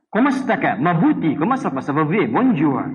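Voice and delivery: lightly playful French phrases; a hint of a French accent; mock French. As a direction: toss off French greetings for fun. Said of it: "Bahasa Prancis".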